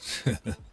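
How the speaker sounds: short, breathy laugh; brief teasing chuckle; light chuckle. Acted. Fixer teasing a tired new arrival, light chuckle.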